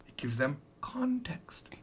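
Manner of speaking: whispering. Real, not acted. Teacher aside while demoing.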